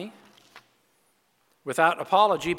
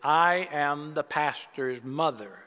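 slow, mildly affronted; indignant; slower than usual. Acted. Elderly woman putting the usher in his place, slow mild indignation. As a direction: lay down who she is, a little offended. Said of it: "replied indignantly".

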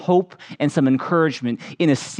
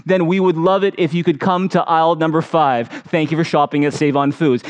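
PA announcement. Retold or imitated. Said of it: "they'll go".

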